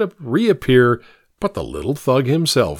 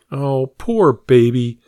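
insincere sympathy; slower than usual. Acted. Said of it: "That didn't sound very sincere".

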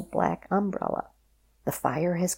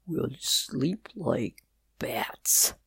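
declaring; much slower than usual. A narrator's reading. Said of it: "he declared".

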